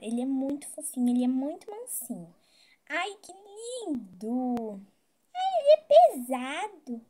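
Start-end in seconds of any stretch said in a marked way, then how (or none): 5.3-7.1 straining exclaim. Real, not acted. Lifting a heavy bear.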